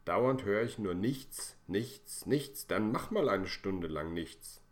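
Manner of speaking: fed-up father losing his patience; exasperated outburst. Acted. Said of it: "Jetzt platzt Herrn Funke der Kragen".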